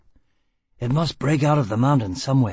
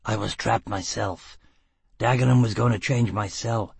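furious tirade; 6 semitones higher than usual. A narrator's reading. Gisbella raging at Foyle.

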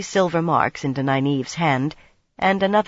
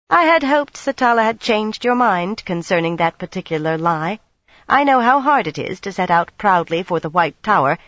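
iron voice; 3 semitones higher, 3 dB louder than usual. Acted. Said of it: "her voice was iron".

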